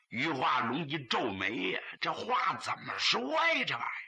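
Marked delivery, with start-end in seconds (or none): 2.0-4.0 higher, shouted question of disbelief; a sudden shouted how can this be; puzzled outburst. Acted. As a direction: blurt it out as a baffled old father. Father puzzled, exclaims.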